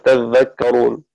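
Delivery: "تذكرون،" slow, dhal held doubled, tadhdhakkarun. Shown as a demonstration. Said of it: "شدد الذال". ("تذكرون،" بتشديد الذال ببطء)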